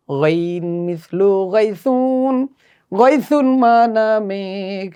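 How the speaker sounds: গাইসুন said slowly with throaty গাইন; slow Arabic model reading. Shown as a demonstration. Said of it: "আসুন আমরা একসাথে পড়ি". (গাইসুন ধীরে আরবি গাইন উচ্চারণে)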